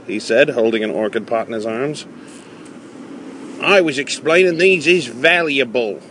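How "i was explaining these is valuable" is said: put-on old man voice.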